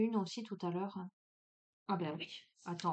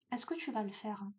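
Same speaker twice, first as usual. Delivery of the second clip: same question asked again, much softer; a quieter second asking of the question; softer repeat; 7 dB quieter than usual. Real, not acted. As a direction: let it drop to a softer, inward ask. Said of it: "repeats the question to the viewer".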